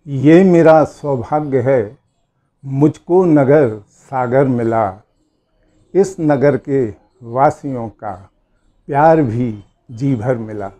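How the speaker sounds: slow, measured verse with a firm opening; poem recitation. Acted. Speaker honouring the town of Sagar, reciting verse. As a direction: recite the couplet slowly, pausing after each phrase.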